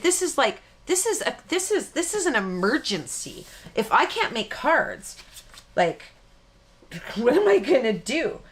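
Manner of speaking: hammed-up emergency over paper, lightly done; mock panic. Telling her husband paper is an emergency, mock panic. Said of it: "I said".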